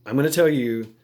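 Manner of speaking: a hint of a bossy, commanding guy; mild mock of a know-it-all giving orders; bossy talker impression. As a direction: lightly play someone barking orders at everyone. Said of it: "people that they talk like this".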